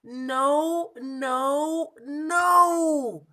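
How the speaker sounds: loud, high, crying no no no; frustrated shout. Acted. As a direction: wail it out in despair. Monkey frustrated, elephant again.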